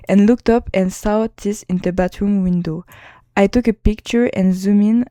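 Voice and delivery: reading English with a heavy French accent. Real, not acted. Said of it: "désolé pour mon accent anglais".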